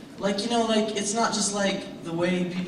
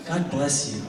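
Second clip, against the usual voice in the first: lightly imitated parting blessing; a touch of mock-wounded blessing; guilt-tripping tone; 2 semitones lower than usual. Father's killer parting line to his son, lightly guilt-tripping. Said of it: "here's the killer".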